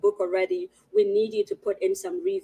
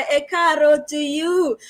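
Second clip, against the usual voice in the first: excited; 6 semitones higher, 4 dB louder than usual. Real, not acted. Greeting in Yoruba, excited.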